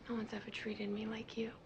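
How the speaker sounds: hushed, halting and heartfelt; tender confession. Acted. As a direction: confess it softly, with long pauses. Tender confession after reconciliation.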